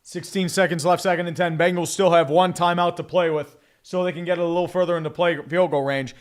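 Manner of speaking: energetic football commentary; live play-by-play. Acted. Streamer calling a Bengals drive, live play-by-play. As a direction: call the play as it unfolds.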